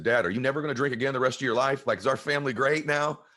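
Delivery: put-on high, hopeful child's question; hopeful kid. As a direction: ask it like a boy looking up to his dad. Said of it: "I said".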